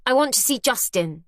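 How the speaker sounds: curt, lightly voiced demand from the stranger; haughty demand. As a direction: insist on it. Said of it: "she demands".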